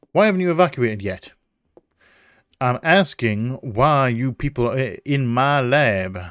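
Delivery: stern, drawn-out southern professor; southern accent. Acted. Professor questioning officers in the lab, southern accent. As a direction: demand it slowly in a southern drawl. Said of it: "I don't know why it's a southern accent".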